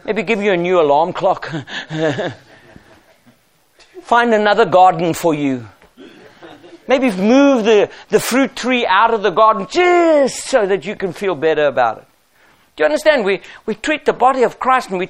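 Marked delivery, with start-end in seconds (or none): 0.0-12.0 a hint of a soothing pushover, softer; mock soft excuse. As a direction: play the weak leader who makes excuses. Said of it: "He didn't say".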